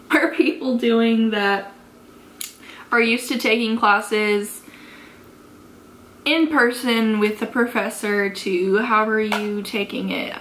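tipsy, stumbling over words. Real, not acted. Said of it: "it took me a while to say that".

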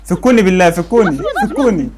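laughing plea. Real, not acted. Begging to be released, laughing.

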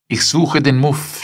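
lady's maid, voiced high and loud; maid's reply. A narrator's reading. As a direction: pipe up like an offended servant. Maid answers her mistress.

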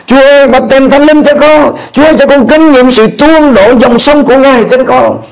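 high, pleading prayer; kneeling on the bed, begging for the Spirit; fervent prayer. Retold or imitated. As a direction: cry out to God for the outpouring. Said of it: "Tôi nói".

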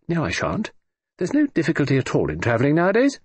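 put-on lightly grand, airy old lady; breezy, haughty dowager dismissal; grand hollywood dame. Lady Matilda answering the Admiral.

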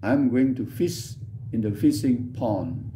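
slow, clear English answer; slow model answer. Shown as a demonstration. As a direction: say it slowly as a model. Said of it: "Makanya saya bagi-bagi". (jawaban bahasa Inggris pelan sebagai contoh)

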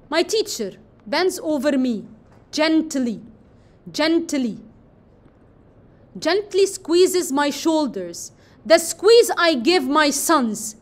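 slow, tender poem recital; poem reading. Shown as a demonstration. Teacher reads the poem's gentle lines slowly to her class. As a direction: let the repeated gently hang in the air.

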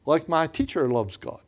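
a boy's Chinese-accented English, retold. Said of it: "he said it in Chinese accent".

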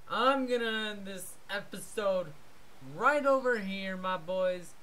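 upbeat channel sign-off; casual vlog outro; youtuber outro. Acted. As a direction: wrap up the video for fans.

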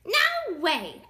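rude pig shouting. A narrator's reading. Pig turns away the wolf, shouting. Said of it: "shouted the pig".

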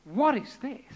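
low, slow, awed question that fades; a crowd that cannot believe it; stunned bewilderment. Retold or imitated. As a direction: mourners watching Jesus touch the coffin. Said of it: "they were all kind of beside themselves".

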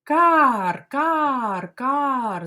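loud high caws; cawing crow for children. Shown as a demonstration. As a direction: caw like a young crow. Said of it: "Як кричатимуть вороненята?".

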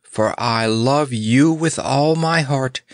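slow, lifted declaration of love; calm, unhurried devotion. Acted. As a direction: say it steadily, drawn out. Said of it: "continued Snorer calmly".

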